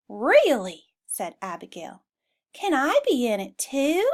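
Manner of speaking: a hint of a pleading cow; hopeful cow. Abigail asks to join.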